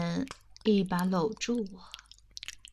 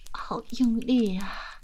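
slow, panting whisper; breathy moaning whisper; slower than usual. Acted. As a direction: gasp the words out slowly. (喘息耳语)

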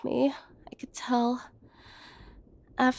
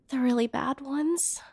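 ordinary delivery

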